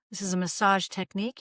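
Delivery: usual speaking voice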